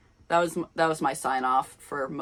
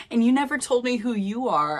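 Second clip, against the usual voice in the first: higher and louder indignant call; mock indignant exclamation, pitched up and louder; exclaimed; 7 semitones higher, 5 dB louder than usual. A narrator's reading. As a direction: call after him, indignant. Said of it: "I exclaimed".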